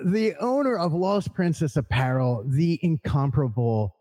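booming emcee introduction; announcer voice. Acted. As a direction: announce the guest grandly. Grand guest introduction.

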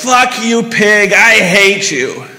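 mild mock outburst; retold angry curse. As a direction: spit it at the cop. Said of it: "Melanie turns to him and says".

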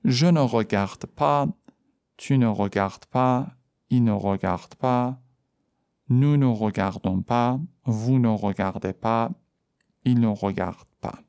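each negative form said slowly and clearly; slow drill. Shown as a demonstration. Teacher conjugates the negative slowly for the class. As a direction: drill the forms slowly for learners.

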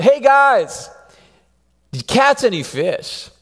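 a friendly shout from the shore; calling out. Retold or imitated. Jesus calls out to the fishermen in the boat, a friendly shout. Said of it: "Jesus yells out".

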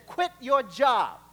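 quit your job slow and heavy, loud; God laying down the command; slow firm voice of God. Acted. God answering the praying listener, slow and firm.

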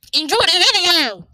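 loud, high cheery presenter call; announcer sign-off. Pretend. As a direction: sell it like a show host. Closing a show announcement.

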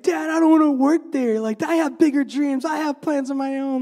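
high, loud, protesting son; excited young inventor. Retold or imitated. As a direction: push back at dad, voice up and loud. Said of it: "and he's like".

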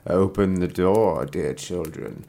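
slow, low gruff wolf; rough wolf voice. Acted. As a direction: growl it like a wolf pretending. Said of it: "She's got a very deep voice".

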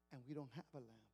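father telling his family they must lose the donkey; grieving father. Acted. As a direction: break the news you dread. Father repeats the bad news.

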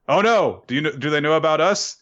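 high-pitched, hurried retold panic; mock worry. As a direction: fret quickly in acted alarm. Character worries they are found out.

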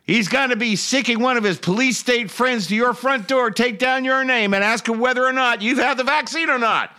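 high, mocking Southern politician voice; hammed-up Southern rally speech; mock Southern accent. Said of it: "and she went on".

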